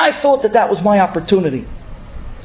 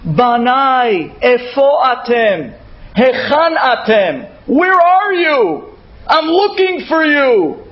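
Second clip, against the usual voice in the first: God crying out; 3 semitones higher than usual. Retold or imitated. Borei Olam calls his children home, pleading and higher. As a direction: call the lost children home, yearning. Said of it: "Borei Olam cries out".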